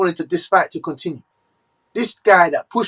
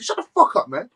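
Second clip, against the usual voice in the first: angry; 2 semitones higher, 3 dB quieter than usual. Real, not acted. Angry outburst at the promoter.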